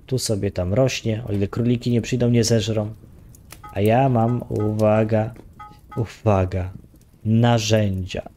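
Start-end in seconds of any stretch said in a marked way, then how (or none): 3.7-8.3 proud little fanfare before showing the tools; mock announcement. Real, not acted. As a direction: tease the reveal like a drumroll.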